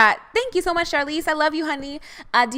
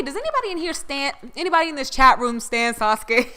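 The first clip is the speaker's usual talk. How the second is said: usual speaking voice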